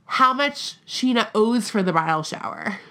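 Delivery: creaky, gravelly fry on the words; vocal fry. Real, not acted. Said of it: "You did the vocal fry".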